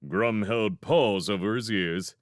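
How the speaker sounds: usual speaking voice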